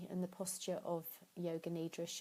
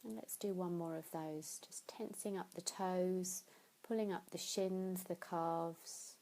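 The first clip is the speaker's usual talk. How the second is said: guided meditation. Acted. Teacher guides listeners through tensing and releasing, calm meditation voice. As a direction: lead the body scan gently and evenly.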